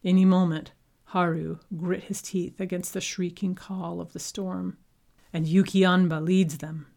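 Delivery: shouting over wind. Acted.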